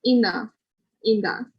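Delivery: "In the" with the th turned to an n. Shown as a demonstration. Teacher showing learners the sound change, TH in "In the" as N. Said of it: "will become like an N".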